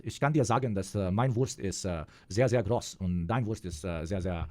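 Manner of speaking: lightly put-on German accent. Answering a request for a best German accent, lightly accented. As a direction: speak German with a hint of showy accent. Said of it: "give us your best German accent".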